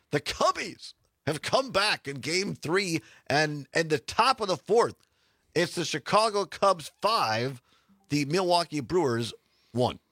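lightly voiced slow baseball announcer; a hint of an old play-by-play call; Harry Caray. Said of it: "Harry Carey might say".

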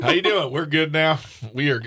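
light put-on Southern accent. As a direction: play it as a friendly Southern greeting. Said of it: "I sound like a Southern person".

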